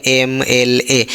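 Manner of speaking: एम एल ए said letter by letter, slowly, with the opening एम vowel sound clear; slow spelling out. Shown as a demonstration. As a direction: let them hear the vowel sound of एम. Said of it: "लेकिन यहाँ देखिए ये अलग है". (एम एल ए धीरे-धीरे, एम की स्वर आवाज़ पर ध्यान)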